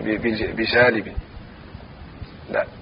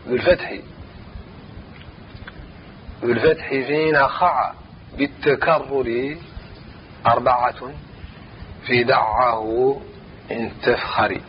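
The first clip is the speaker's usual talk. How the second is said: verse recitation. Shown as a demonstration. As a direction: chant the verse line, drawing out each phrase. Teacher chants the verse again. (تلاوة نظم بتمهل)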